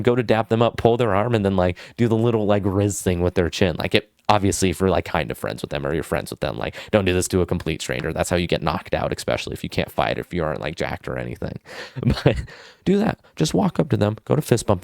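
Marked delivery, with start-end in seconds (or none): none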